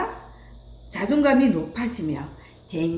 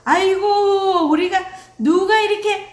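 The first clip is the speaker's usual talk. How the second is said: doting indignant grandmother; 9 semitones higher, 5 dB louder than usual. Retold or imitated. Grandmother defending her crying grandchild, indignant fussing. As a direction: play an outraged, protective grandmother. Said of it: "그때 할머니가".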